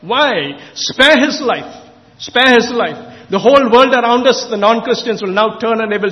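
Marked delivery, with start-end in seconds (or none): 0.0-3.0 retold prayer. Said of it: "I cried out to God and said".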